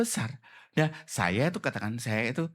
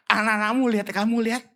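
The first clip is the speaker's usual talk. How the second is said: higher and emphatic; raised, fervent witness; bold declaration; 7 semitones higher, 4 dB louder than usual. Acted. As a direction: proclaim it with conviction. Preacher voicing bold witness.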